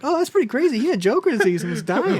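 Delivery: believe every word, impressed; gullible amazement. Retold or imitated. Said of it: "I'm like".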